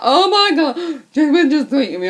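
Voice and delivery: high, loud fangirl outburst; re-enacted tearful excitement. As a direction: burst out in hysterical, hammed-up joy. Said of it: "I burst out crying".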